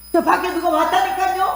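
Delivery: trying to keep it gentle; softened call. Retold or imitated. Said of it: "내가 말하는 톤이 그 정도 내려가지 않으면". (높지만 부드럽게 낮춘 목소리)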